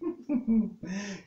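high, light horse whinny of a laugh; a little amused whinny; storyteller whinnying as the horse Cushy. A narrator's reading. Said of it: "Cushy let out an amused whinny".

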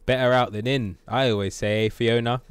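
loud, clearly projected character line; Shrek. Acted. Gamer redoing Shrek's burp line, loud impression. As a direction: belt out the catchphrase clearly. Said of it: "It could have been a lot clearer".

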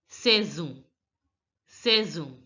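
saison as "say-zon", said twice; French pronunciation. Shown as a demonstration. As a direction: say saison with a z in the middle. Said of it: "The A I sound has to be pronounced as".

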